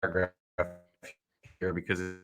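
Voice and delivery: choppy, dropping call audio; broken-up internet connection; audio cutting out. Real, not acted. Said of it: "audio's cutting out a little bit".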